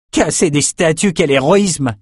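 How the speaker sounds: dry mocking jab; sarcastic. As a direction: scoff at their fake heroism. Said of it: "lâcha Bannon".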